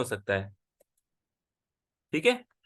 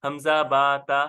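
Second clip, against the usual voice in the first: slow, deliberate letter names, a bit louder; spelling out letters; 2 semitones lower, 4 dB louder, slower than usual. Shown as a demonstration. Teacher slowly spells letter names for a student. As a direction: recite हमजा बा ता one letter at a time, slowly. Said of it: "जब हम इसको लिखते हैं ना".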